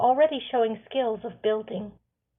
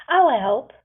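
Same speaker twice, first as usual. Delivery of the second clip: usual speaking voice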